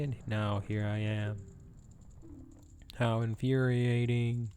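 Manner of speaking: a hint of a mournful ghost. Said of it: "Try to give him a spooky ghost voice".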